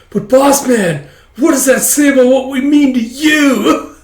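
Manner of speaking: very high, loud mock-panicked wail; freaking out. Flunkies learning boss has other friends, mock freak-out. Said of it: "They start freaking out".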